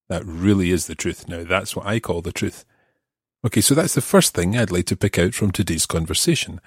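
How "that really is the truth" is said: "really" pushed up in the line; stress on really. Shown as a demonstration. Teacher translates the emphasis, stressing really. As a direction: lean on "really". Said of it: "add emphasis".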